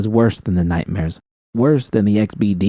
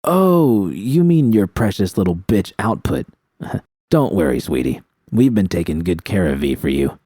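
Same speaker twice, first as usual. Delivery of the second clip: mocking villain. Bishop mocking her.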